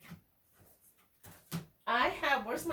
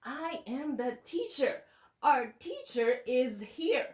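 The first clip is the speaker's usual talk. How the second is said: slow read-along. Shown as a demonstration. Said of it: "Can you say that for me?".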